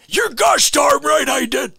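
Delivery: high, loud, slow shout; hammed-up colonel shout. Colonel shouting his answer to the lawyer. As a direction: bellow it out with pride. Answering quote in movie scene.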